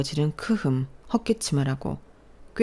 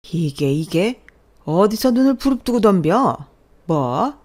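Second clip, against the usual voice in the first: loud, higher indignant father; outraged shout; 4 semitones higher, 7 dB louder, slower than usual. Acted. Father outraged at daughter's defiance, outraged shout. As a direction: sputter in outrage.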